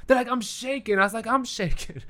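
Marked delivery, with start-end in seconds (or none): 0.3-1.0 high-pitched mock fan thrill; lightly hammed-up starstruck fan; excited fan. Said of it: "I just say stuff right back". 1.2-2.0 high mock-fan echo; lightly hammed-up echo of a fan; parroted excitement. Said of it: "I just say stuff right back".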